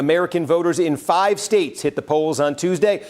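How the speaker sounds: serious newscaster voice. Acted. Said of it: "I'm gonna put on the serious newscaster voice here".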